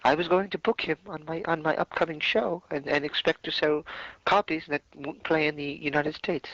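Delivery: high, put-on clueless voice; playing dumb. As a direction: ham up a dim-witted excuse. Mock clueless excuse continues.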